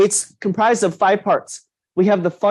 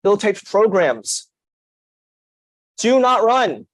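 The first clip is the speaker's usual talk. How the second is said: each word weighted slowly, DO NOT RUN pitched up; slow emphatic declaration; 3 semitones higher, slower than usual. Shown as a demonstration. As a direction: spell out "do not run" slowly and firmly, every word stressed. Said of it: "sound for emphasis".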